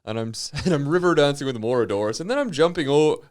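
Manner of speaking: wobbly put-on Irish accent. Co-host demonstrates slipping into Irish, Irish accent. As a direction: attempt a jaunty Irish accent.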